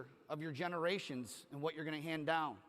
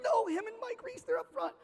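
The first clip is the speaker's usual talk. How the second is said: giddy assistant voice. Retold or imitated. Assistant voiced in retold story.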